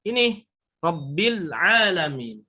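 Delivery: slow, careful rabbil alamin; slow model recitation; recited slowly. Shown as a demonstration. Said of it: "jangan ada pantulan".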